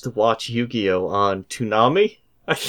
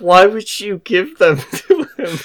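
incredulous retelling; 8 semitones higher, 4 dB louder than usual. Retold or imitated. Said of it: "And I was just like".

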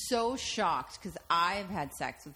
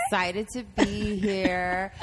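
mock gracious; 5 dB louder, slower than usual. Mock gracious guest intro.

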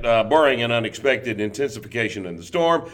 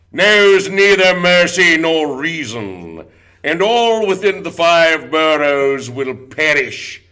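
loud, slow apocalyptic proclamation; doom prophet voice; 3 semitones higher, 5 dB louder, slower than usual. Pretend. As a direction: boom it out like a doomsday prophet. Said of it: "the accent used by those on high".

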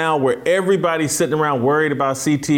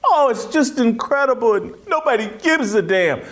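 mocking sympathy. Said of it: "this whole thing that".

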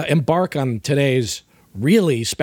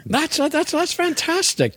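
mock amazement; 12 semitones higher, slower than usual.

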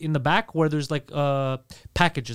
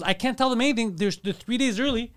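acted-out arguing back, pitched higher; higher, defensive retort in a retold quarrel; exasperated protest; 6 semitones higher than usual. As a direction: voice a fed-up wife's rising protest.

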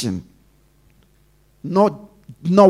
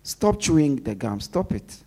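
curt, flat command; just tell her to stop, no softening; a mildly blunt, tactless rebuke; blunt order; 2 semitones lower, 3 dB quieter than usual. Shown as a demonstration. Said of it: "I cannot just say".

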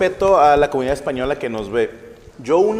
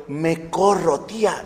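mock Spanish accent; 3 dB quieter, much slower than usual. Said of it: "con el acento así español dije".

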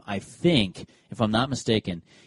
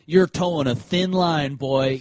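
lightly put-on Southern accent, higher and drawn out; 3 semitones higher, slower than usual. Umpire challenging the catcher, in a light mock Southern accent. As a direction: stretch it out with a touch of Southern twang. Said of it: "I don't know why I went Southern accent".

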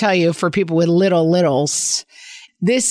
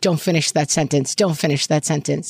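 silent warning; 4 semitones lower than usual. Retold or imitated. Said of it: "tried with my eyes to be like".

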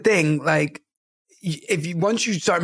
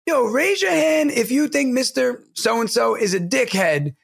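slow, higher-pitched student call-out; cheeky kid; 6 semitones higher than usual. Retold or imitated. Kid polling the class about the teacher, lightly imitated. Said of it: "this kid straight up goes".

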